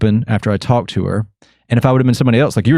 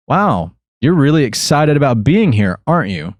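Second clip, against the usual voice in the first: mock-impressed, higher-pitched wow; sarcastic tease, recounted; retold sarcasm; 4 semitones higher than usual. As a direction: lay on fake admiration, retelling a dig. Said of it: "I'm being sarcastic".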